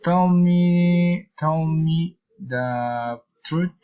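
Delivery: emphatic, drawn-out "Tell me"; high, firm start on "Tell me"; slow command stretching out "tell me"; command intonation. Shown as a demonstration. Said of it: "Common phrase intonation".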